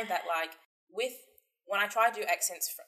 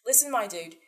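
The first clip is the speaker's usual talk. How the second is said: New Zealand accent; 9 dB louder than usual. Shown as a demonstration. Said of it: "This is actually not even close to my best New Zealand accent".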